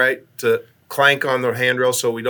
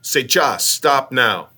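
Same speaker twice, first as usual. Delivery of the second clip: firm commands in stilted Russian; measured Russian-speaking voice, mildly put on; best Russian voice; 3 semitones higher than usual. Astronaut in charge ordering crewmate back, best Russian voice. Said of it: "my best Russian vo-, voice".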